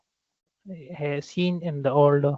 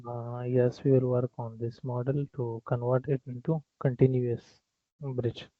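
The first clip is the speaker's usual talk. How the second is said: speaking very softly, hard to hear; faint voice too soft for the call; barely audible; 3 semitones lower, 6 dB quieter than usual. Real, not acted. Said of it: "Your voice is very low".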